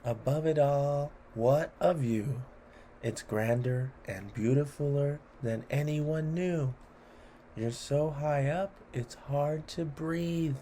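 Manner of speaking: playful rhythmic read-aloud; poem reading. A narrator's reading. Host reading a cheese poem to children, playful. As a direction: lilt through the rhymes for kids.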